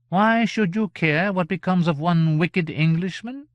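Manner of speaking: haughty character voice, aggrieved and high; indignant gentleman. A narrator's reading. Gentleman's voice again.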